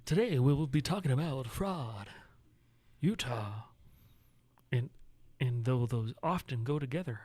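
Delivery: put-on host announcing the topics; podcaster voice. Host introducing today's topics to listeners, podcaster voice. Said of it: "You like my podcaster voice?".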